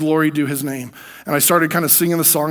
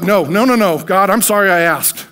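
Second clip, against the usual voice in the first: fearful plea; 3 semitones higher, 5 dB louder than usual. Retold or imitated. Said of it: "And I was like".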